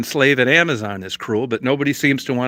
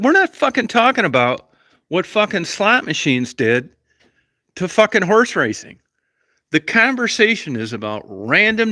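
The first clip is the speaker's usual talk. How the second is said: angry yelling; 6 semitones higher than usual. Retold or imitated. Reliving a fight with his wife over lottery tickets, yelling angrily. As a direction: shout him down in a heated argument. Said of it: "you don't need to talk to me in that tone of voice".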